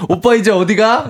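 put-on high-pitched playful girlfriend question; lightly acted girlfriend. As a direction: pipe up first, as if pre-empting him. Acts out girlfriend asking first.

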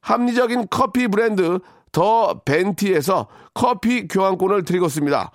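brisk sponsor announcer read. Acted. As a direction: rattle off the prizes like an ad. Reads sponsor gift list.

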